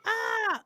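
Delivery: high-pitched cry of overwhelm; retold little yelp of panic; mock panicked "ah". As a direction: let out a high "ah" at a packed schedule. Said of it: "panic is the right word".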